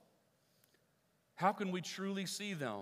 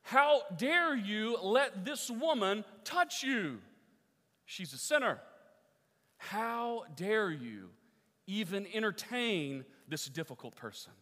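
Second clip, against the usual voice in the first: indignant Pharisee; 4 dB louder than usual. Retold or imitated.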